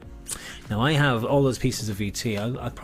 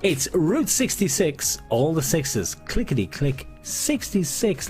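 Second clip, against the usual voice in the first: slow sing-song number call; bingo caller; 4 semitones higher, slower than usual. Acted.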